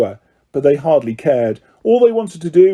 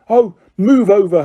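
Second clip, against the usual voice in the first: snarled; 4 semitones higher, 3 dB louder than usual. Acted. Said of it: "Hermione snarled".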